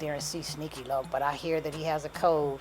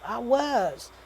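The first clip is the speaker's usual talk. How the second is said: high, louder retort; defensive protest; 8 semitones higher, 5 dB louder than usual. A narrator's reading. Pregnant woman answering his accusation about the pill, defensive. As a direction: defend yourself with a raised voice.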